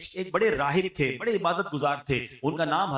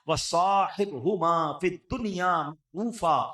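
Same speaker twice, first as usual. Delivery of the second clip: Quran recitation. Shown as a demonstration. Preacher quoting the Quran to the congregation, in recitation style. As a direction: intone "فَلَا تُطِعْهُمَا" in a chanted Quranic cadence. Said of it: "جو قرآن کریم میں فرمایا".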